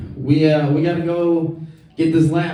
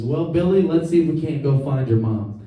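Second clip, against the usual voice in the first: salesman voice. Retold or imitated. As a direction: play a smooth door-to-door salesman. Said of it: "he says".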